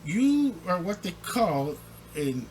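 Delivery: quick, high, hammed-up boss voice; mock general manager. Owner lecturing the head coach, lightly hammed-up. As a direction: rattle it off like a GM stepping in. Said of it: "general manager would say".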